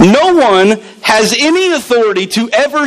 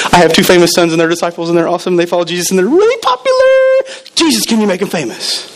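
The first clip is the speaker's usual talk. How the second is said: mock pleading mother; faster than usual. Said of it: "This lady's priorities were".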